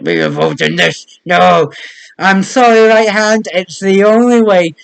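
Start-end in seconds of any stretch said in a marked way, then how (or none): 2.2-4.7 a lighter, louder take on the mock Spanish accent, near a sob; the right hand apologizing with a hint of Spanish. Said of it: "Was that meant to be a Spanish accent?".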